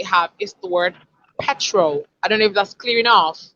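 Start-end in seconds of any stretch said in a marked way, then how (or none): 1.4-2.0 petrol stressed on PET; PET-rol, falling away after the first syllable. Shown as a demonstration. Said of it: "They usually favor the first syllable".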